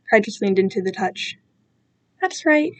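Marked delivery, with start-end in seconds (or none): 2.2-2.7 soft, soothing reassurance; calm the crying child; softly reassuring captor. Acted. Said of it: "continuing the soothing motions".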